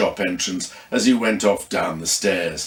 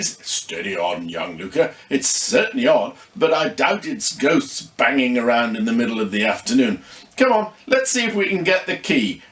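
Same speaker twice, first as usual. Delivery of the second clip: reassuring Viv. Acted. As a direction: settle the frightened boy down. Viv calming Luca.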